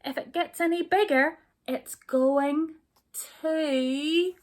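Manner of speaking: high, loud panicky cry, fast; high frantic cry; alarmed cry. Acted. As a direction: squeal at them to stop before it bursts. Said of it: "till the others cried".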